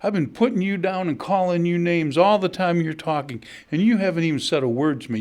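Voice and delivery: loud, high, furious taunting; angry heckler. Retold or imitated. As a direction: hurl the insults at him in a rage. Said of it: "the guy got mad".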